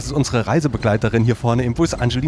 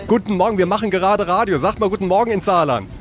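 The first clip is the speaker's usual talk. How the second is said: calling out; 5 semitones higher than usual. Real, not acted. Calls to the whole bus group.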